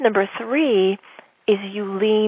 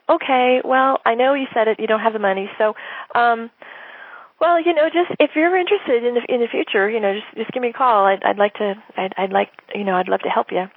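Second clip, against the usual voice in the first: timid pulling-away seller; 2 semitones higher than usual. Retold or imitated. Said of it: "here's what it looks like".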